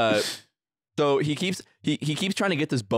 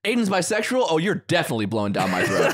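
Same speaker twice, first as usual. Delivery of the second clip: higher, gleeful surprise then laughing; higher gleeful mock surprise from the friend; 5 semitones higher than usual. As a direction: act thrilled at the news. Mango's delighted reaction quoted.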